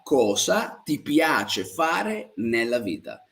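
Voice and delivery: slow, spaced-out Italian question; slow model question. Shown as a demonstration. Teacher repeats the question for learners, slowly and spaced out. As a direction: draw out each word so learners can follow.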